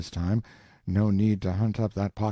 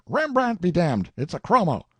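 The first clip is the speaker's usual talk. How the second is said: loud, high scoffing; mock the fake painting; scornful; 9 semitones higher, 6 dB louder than usual. Collector scoffing at the chromo, loud scorn.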